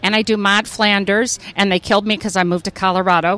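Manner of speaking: lightly voiced cartoon wife; a touch of a killed-off cartoon neighbor; Maude Flanders. Shown as a demonstration. Actress rattling off her characters, lightly voiced wife. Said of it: "thank you very much for doing the voices".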